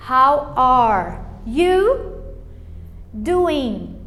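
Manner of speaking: very slow "How are you doing", each word separate; "are" with silent E, "doing" with swallowed G; word-by-word model. Shown as a demonstration. Teacher demonstrates to beginners, "How are you doing" drawn out. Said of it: "a gente engole ela".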